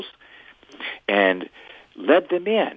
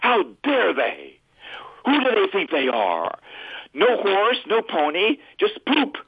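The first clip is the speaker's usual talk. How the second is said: put-on higher, slow, indignant tantrum of an eight-year-old; rising storybook outrage, climbing higher to the poop; angry boy; 7 semitones higher than usual. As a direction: play up the furious little boy who got no pony. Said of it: "He was angry and cursing and kicking and said".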